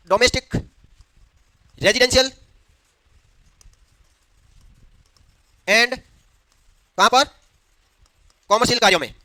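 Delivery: long gaps after each word; halting classroom dictation. Real, not acted. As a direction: dictate in short pieces for note-takers. Dictating notes, pausing while class writes.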